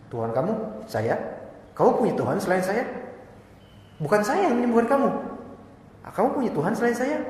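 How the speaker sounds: king can't believe he has a rival; astonished king. Acted. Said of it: "Dia tanya keheranan".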